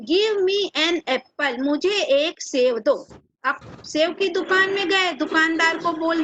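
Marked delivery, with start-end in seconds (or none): 0.1-3.1 each word read out very slowly, x0.3; slow dictation. Shown as a demonstration. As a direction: spell it out slowly for the class. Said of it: "ओ के पहले N आएगा". (बहुत धीरे, शब्द-शब्द पढ़ना)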